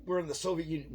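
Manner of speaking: high, loud mock panic; mocking a liberal. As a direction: ham up a horrified liberal crying Soviet Union. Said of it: "and a super left liberal".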